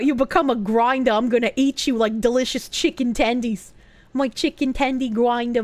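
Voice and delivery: lightly hammed Boston accent; easygoing Boston slang voice; Bostonian accent. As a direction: talk like a Bostonian, dropping r's. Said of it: "a very Bostonian accent".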